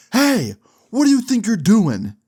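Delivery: high, loud shout of a mall cop; startled guard shouting from behind; guard yelling. Retold or imitated. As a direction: bark it like a security guard catching kids. Security guard catches them skating.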